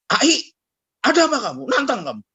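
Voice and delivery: angry retort. Retold or imitated. Preacher shouts back at biker.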